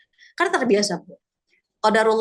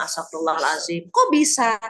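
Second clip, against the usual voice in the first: dismayed surprise; 4 semitones lower than usual. Retold or imitated. Hearing how the friend died, dismayed surprise. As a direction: gasp out the shock at the news. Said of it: "saya bilang".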